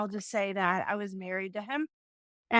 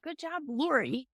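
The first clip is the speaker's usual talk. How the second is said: joking; 4 semitones higher, 4 dB quieter than usual. Retold or imitated. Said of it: "I said it in a joking way".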